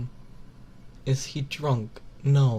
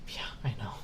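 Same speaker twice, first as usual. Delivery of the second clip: whispering; 2 semitones lower, 4 dB quieter, faster than usual. Real, not acted. Whispered aside to chat.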